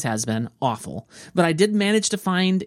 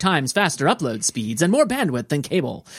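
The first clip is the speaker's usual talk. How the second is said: higher, hyped ad announcer; 5 semitones higher than usual. Pretend. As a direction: sell it like a TV ad announcer. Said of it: "I'm trying to do my announcer voice there".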